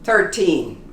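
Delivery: put-on thirteen said without the th, like ur-teen; easy thirteen. Shown as a demonstration. Teacher offers the easy thirteen to learners. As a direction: drop the th in thirteen. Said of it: "It's easier to pronounce".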